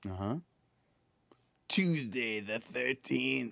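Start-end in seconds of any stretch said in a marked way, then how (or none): 1.7-3.5 spooky whisper. Pretend. Ominous date reveal.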